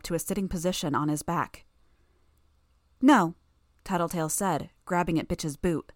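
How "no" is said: loud, raised-pitch protest; urgent objection. Acted. Tattletale stopping Bitch from riding out, urgent and loud. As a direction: cut in loudly to stop someone.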